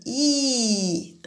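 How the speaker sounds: a soft, unvoiced "I" said through a smile; quiet teacher's demo of "I"; demonstrated I sound. Shown as a demonstration. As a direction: whisper the vowel "I" with spread lips. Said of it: "pour faire I, on sourit".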